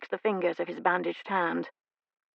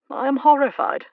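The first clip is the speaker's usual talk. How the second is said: higher, louder burst of horror; horrified cry; 7 semitones higher, 7 dB louder than usual. Acted. Uncle horrified at his son's confession, rising sharply. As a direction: let the horror break out.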